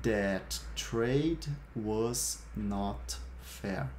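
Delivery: very slow, stretched-out sentence for learners; slow model sentence. Shown as a demonstration. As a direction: draw out every word clearly. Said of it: "Eu vou repetir cada uma das frases".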